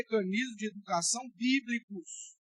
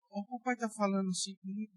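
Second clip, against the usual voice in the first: usual speaking voice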